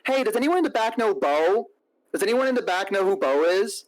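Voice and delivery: high-pitched mimicry, calling out a question; imitated searching date. Date asking restaurant staff about him, high imitated voice. Acting the woman asking around.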